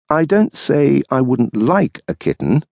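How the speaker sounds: dry retort as the wife; wife's voice. Acted. Wife waiting up for her husband, tart retort.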